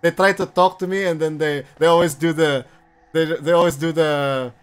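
Filipino accent with a lifted voice; put-on Filipino accent, repeating as you search; forced Filipino accent. Shown as a demonstration. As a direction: imitate Filipino relatives' accent, haltingly. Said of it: "your voice goes higher when you're trying to do a, that accent".

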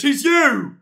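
loud, high accusing yell; shouted taunt. Real, not acted. Streamer accusing a chatter of being the creepy man, shouted taunt. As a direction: fling it back as an accusation. Repeated louder after plain take.

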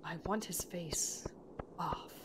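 slow, hushed, mild-mannered impression; Owen Wilson. Player repeating a character's threat, mild-mannered slow hush. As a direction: draw it out softly, nearly whispered. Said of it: "Owen Wilson voice".

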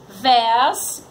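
"vés" slow, as a separate syllable; sílaba isolada. Shown as a demonstration. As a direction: stretch "vés" on its own. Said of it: "no segundo". ("vés" devagar, isolado)

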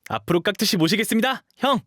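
very high, excited exclamations; overjoyed. Acted. Dog boy thanking his hyung for letting him stay, elated. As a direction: burst out with delighted gratitude.

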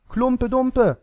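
put-on very high, loud child-like yell; shrieked, clamouring cry; children shouting. A narrator's reading. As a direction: yell a rival choice like an eager child. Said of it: "schrien andere".

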